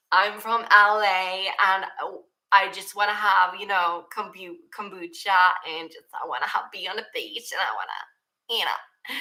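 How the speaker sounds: a hint of a dreamy Valley girl; valley girl impression. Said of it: "I pretty much sound like that".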